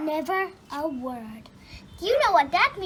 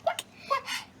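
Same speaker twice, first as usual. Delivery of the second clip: breathless whispered quacks; whispered duck quack; 8 semitones higher, 4 dB quieter than usual. Acted. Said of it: "said the duck".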